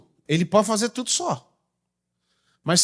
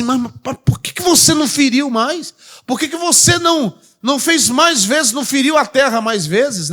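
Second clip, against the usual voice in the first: higher, lightly voiced scolding question; mild indignant prophet; 5 semitones higher than usual. Preacher voices the prophet asking why he struck so little, mildly indignant. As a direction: press him with mild indignation. Voicing the indignant man of God.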